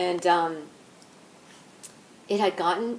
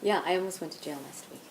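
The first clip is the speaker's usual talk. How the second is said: softer, settled restatement; serious confirmation; 6 dB quieter than usual. Real, not acted. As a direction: confirm it quietly, in earnest.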